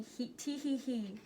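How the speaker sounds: tiny giggle. A narrator's reading. Jester coaxes a tiny giggle.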